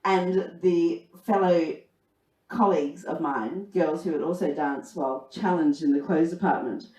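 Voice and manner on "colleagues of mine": usual speaking voice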